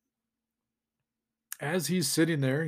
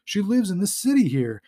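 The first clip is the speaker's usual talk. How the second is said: excited, higher retold exclamation; lightly acted cry of sudden realisation; mild mock yell; 3 semitones higher than usual. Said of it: "and he yells".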